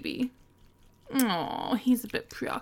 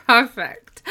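loud excited approval; 12 dB louder than usual. Acted.

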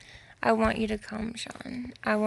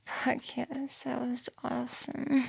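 whisper; 2 semitones higher than usual. Real, not acted. Whispered after climax.

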